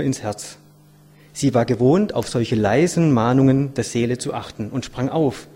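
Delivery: measured, dramatic storytelling; expressive read-aloud voice; story narration. A narrator's reading. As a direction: read the tale aloud with weight on key words.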